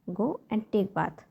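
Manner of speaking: each word slow and spaced for learners; very slow model repeat. Shown as a demonstration. Teacher to parents, repeating the phrase very slowly. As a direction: drag it out slowly so a parent can copy. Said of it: "तो आपको बोलना है".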